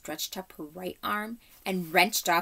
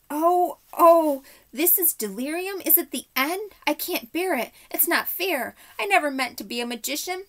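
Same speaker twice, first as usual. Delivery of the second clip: high, loud terrified wail; 7 semitones higher, 5 dB louder than usual. A narrator's reading. Uncle Andrew wails in the darkness, high frightened wailing. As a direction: whine it like a panicked old man. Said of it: "it was wailing on".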